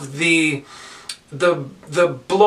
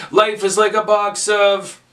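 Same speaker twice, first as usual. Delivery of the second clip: higher pitch, left hanging on OF; fill-in prompt; 4 semitones higher than usual. Shown as a demonstration. Teacher getting class to call out the ending, fill-in prompt. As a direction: hold OF open for someone to finish.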